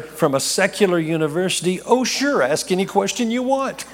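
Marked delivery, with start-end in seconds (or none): 1.8-3.8 eager blurted yes. Retold or imitated. Caught off guard, agrees eagerly.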